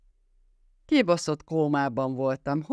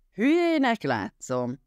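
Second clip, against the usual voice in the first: raised voice; 8 semitones higher than usual. A narrator's reading. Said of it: "emelte fel a hangját Greg".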